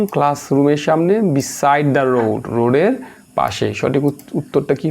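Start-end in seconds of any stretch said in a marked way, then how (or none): 1.2-2.4 drawn-out answer option; teacher reading options aloud; very slow reading. Acted. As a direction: read each option out slowly.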